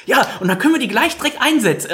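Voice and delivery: high-pitched imitation of a proud dad; mock-proud father. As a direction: mimic a father boasting proudly. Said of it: "Und der Vater sagt so ganz stolz". (stolzen Vater hoch nachgeäfft)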